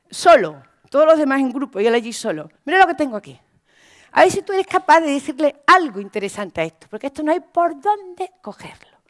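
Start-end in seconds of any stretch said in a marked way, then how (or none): 2.6-9.0 a touch of a mocking teacher, ending in a whisper; imitating a cruel teacher; scornful teacher. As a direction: belittle the child, then hiss the last bit. Teacher humiliates child.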